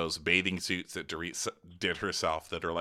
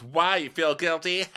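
higher, teasing question; mock pointed jab; 8 semitones higher than usual. Imitating Kyle needling PK at dinner. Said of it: "She goes".

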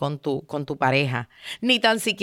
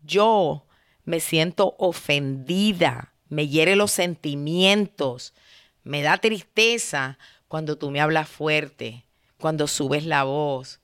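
calm I-statement; 3 semitones lower than usual. Shown as a demonstration. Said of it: "Tú empiezas con yo".

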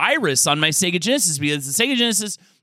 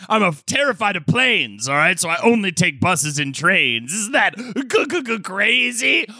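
lightly voiced Madden rambling to fans; John Madden impression; 3 semitones higher than usual. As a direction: play a stammering Madden spoof. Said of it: "It's your bruiser, John Madden".

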